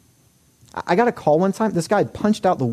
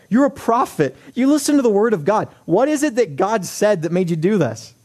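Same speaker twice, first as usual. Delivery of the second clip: noticeably higher, accusing king demanding an answer; incredulous Abimelech; 5 semitones higher than usual. Retold or imitated. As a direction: confront him like a wronged king. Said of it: "Abimelech is like".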